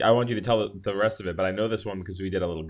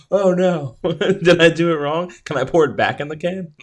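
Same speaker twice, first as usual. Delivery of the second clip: high, loud, giggling fake worry; giggly mock alarm at her own mistake; laughing mock panic; 8 semitones higher, 7 dB louder than usual. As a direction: play up the panic through laughter. Imagined worried self-quote.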